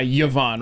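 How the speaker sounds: "Yvonne" as yeh-VON; variant pronunciation. Shown as a demonstration. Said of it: "some people do go by".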